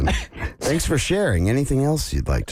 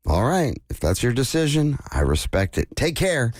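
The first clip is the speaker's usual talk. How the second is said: laughing; 6 semitones higher than usual. Real, not acted. Voicing the AI chatbot Dan.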